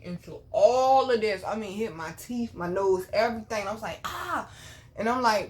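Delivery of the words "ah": pained cry. Retold or imitated. Retold window slammed on face.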